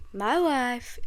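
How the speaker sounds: put-on catchphrase impression; Borat. Quoting a film catchphrase for laughs, lightly put-on character voice. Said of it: "does Borat impressions".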